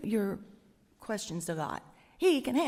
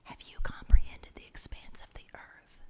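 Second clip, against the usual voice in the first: tender whisper. Acted. God whispering to Job as a son, tender whisper. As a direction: whisper the questions lovingly. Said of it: "Here's another one".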